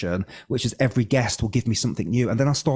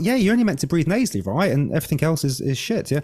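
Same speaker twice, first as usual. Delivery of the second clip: cocky; 6 semitones higher than usual. Retold or imitated. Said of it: "I was like".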